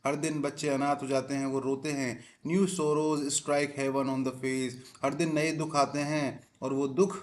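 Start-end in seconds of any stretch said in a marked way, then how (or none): 2.5-4.7 very slow reading. Shown as a demonstration. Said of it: "teacher reads text slowly".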